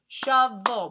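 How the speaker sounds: "Shovel" in two punched beats; "Shovel" loudly divided in two; syllable by syllable. Shown as a demonstration. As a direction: clap out both syllables of "Shovel". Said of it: "We clap two times".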